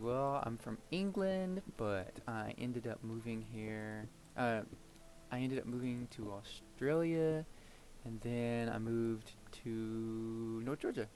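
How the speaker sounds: lightly imitated British accent. Tour guide fooling people about being from England, British accent. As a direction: retell it in a slow, put-on British accent. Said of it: "the tour that I did the British accent".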